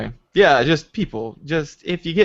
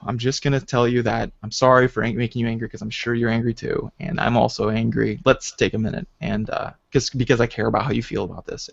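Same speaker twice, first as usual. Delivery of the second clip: calm talk; 4 semitones lower, 4 dB quieter than usual. Shown as a demonstration. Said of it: "instead of just going".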